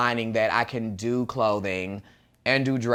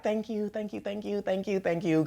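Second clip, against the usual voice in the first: gushing thanks; 8 semitones higher, 4 dB quieter than usual. Retold or imitated. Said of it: "I'm, like, super".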